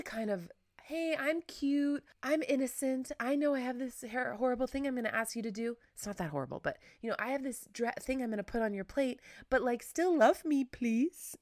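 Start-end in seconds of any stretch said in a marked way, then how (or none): 0.8-5.8 put-on young little-girl voice. Shown as a demonstration. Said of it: "slightly young, really young, super young voice". 7.2-11.4 put-on young little-girl voice. Shown as a demonstration. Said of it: "super young voice".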